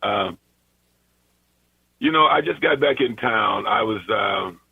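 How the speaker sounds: slightly hoarse morning voice; a little hoarse. Real, not acted. Radio caller apologizing to the host for his hoarse voice. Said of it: "I'm a little hoarse here this morning".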